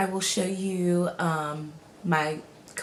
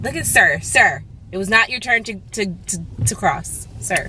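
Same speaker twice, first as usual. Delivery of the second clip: loud scolding; 6 dB louder than usual. Real, not acted. Scolding a passing driver.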